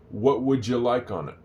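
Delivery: "would you" fused into "wouldja" in "What would you like on it"; sloppy waiter speech. Shown as a demonstration. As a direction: run "What would you like on it" together casually. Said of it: "it doesn't sound like it's gonna look".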